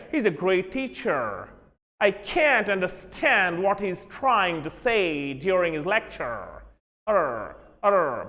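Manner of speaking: put-on American accent with strong r sounds, lecture said lectur; light imitation of an American accent. Teacher imitating an American student, American accent. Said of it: "Americans र पढ़ते हैं".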